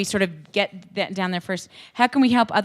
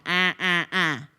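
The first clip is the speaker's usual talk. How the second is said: whine; slower than usual. Retold or imitated. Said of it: "turn it up into that".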